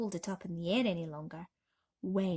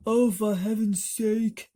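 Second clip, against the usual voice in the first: louder, slow exasperated sigh of a line; exasperated earthworm; 7 dB louder, slower than usual. A narrator's reading. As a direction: drag it out in exasperation. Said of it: "said the earthworm".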